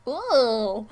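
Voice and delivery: loud, startled gasp of a whoa. Real, not acted. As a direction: blurt it out in shock. Startled by gross wound photos.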